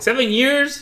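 high, loud retold disbelief; incredulous. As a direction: imitate his squeaky shocked question.

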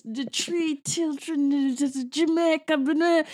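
mock a bad movie Jamaican accent. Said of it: "bad Jamaican accent".

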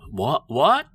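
the waitress who just doesn't get it; baffled waitress. Retold or imitated. Confused waitress voiced in story.

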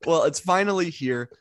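slow, grand reveal of the title; dramatic announcement. Acted. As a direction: announce it like a trailer.

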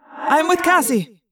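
high, slow call; alien friend's voice. Acted. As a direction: report in, carefully. Axe reporting to friends.

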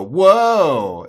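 loud mock gasp of amazement; mock amazed crowd; amazed whoa. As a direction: react like the crowd just got stunned. Everyone's amazed reaction.

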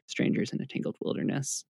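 whispered quickly at the end. Real, not acted. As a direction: fade it to a fast whisper. Trailing fast whisper.

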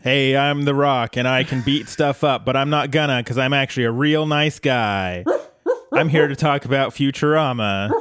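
lightly voiced action-star swagger; a hint of a macho wrestler boasting; The Rock impression. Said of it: "you wanna hear my The Rock impression".

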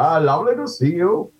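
beam the greeting in the Guru's Indian-ish accent; light Indian accent, bordering on Welsh; Guru accent demo. Shown as a demonstration. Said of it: "I just talked like this, all from the bottom".

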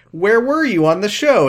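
high, loud acted-out challenge; hammed-up questioning; mock demanding question. Acting out Grace's demanding question.

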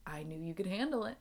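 soft, quick retold reassurance; quiet reassurance. Boss telling employee he could handle it, retold in soft reassurance. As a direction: quote the boss softly, without fuss. Quoting Don reassuring Pete.

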